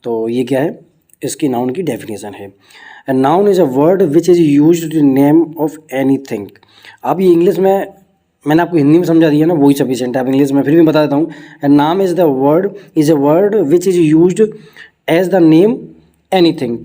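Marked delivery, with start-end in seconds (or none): 3.1-6.4 very slow, word-by-word definition reading; dictation pace. Shown as a demonstration. Reads definition slowly. 11.6-16.8 very slow, word-by-word definition reading; dictation pace. Shown as a demonstration. Reads definition slowly.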